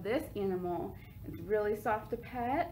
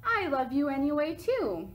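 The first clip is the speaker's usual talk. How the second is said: Olivia's reply; 3 semitones higher than usual. Acted. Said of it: "Olivia gives her a kiss back and says".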